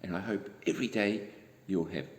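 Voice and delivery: soft, tender words to the listener; warm closing wish. Real, not acted. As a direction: bedtime goodnight wish. Reader's closing wish to child.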